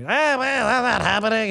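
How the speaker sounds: high, mocking Geraldo voice; a hammed-up impression of a flustered TV pundit. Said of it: "He was, like, losing his mind".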